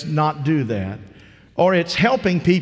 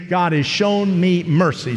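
call and response. Shown as a demonstration. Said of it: "Say that with me".

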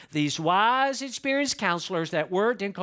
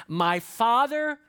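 proclaiming king; 4 semitones higher, much slower than usual. Acted. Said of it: "what he's got from his high school buddies".

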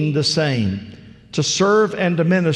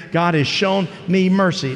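call and response; 2 semitones higher than usual. Shown as a demonstration. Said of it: "Say it again".

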